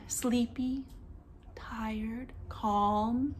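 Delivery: drowsy voice for a sleepy face; sleepy and tired. Shown as a demonstration. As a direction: act out sleepy calm. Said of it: "what about this face?".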